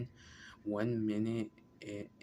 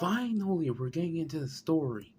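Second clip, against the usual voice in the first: excited relief; 6 semitones higher, 5 dB louder than usual. Real, not acted. Friend cheers when the story turns.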